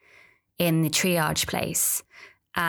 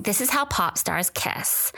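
put-on child; 4 semitones higher than usual. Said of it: "And she kept saying".

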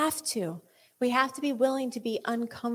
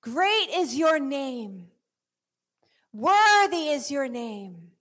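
slow modelled praise; 3 semitones higher, slower than usual. Shown as a demonstration. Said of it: "begin to narrate what it is that you see".

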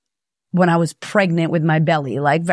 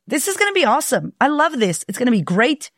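mock optimist; 6 semitones higher than usual. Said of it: "Or are you on the, like".

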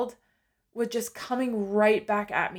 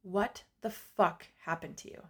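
retold self-confrontation; 4 dB quieter than usual. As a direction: ask yourself in quiet disbelief, word by word. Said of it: "and I said".

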